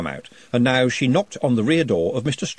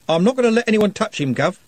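put-on higher, louder, pleading young man; earnest young street lad; 10 semitones higher, 4 dB louder than usual. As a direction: stand up for your friend to the boss. Trev insists.

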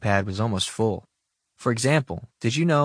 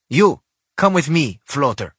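put-on louder, higher creepy villain voice with Russian accent; creepy Bond villain; 5 semitones higher, 7 dB louder than usual. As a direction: sound like a menacing Bond villain. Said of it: "sound like a creepy James Bond villain".

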